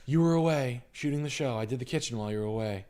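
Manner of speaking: lightly voiced sweet wife. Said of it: "she's like".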